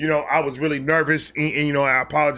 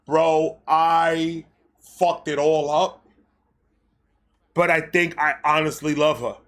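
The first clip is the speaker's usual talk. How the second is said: lovesick confession. Retold or imitated. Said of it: "and I went".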